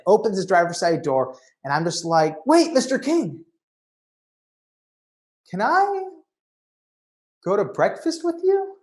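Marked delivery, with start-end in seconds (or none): 2.5-8.8 much higher, pleading voice; pleading fan asking Larry King to breakfast; desperate plea. Retold or imitated. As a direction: beg him before he drives off.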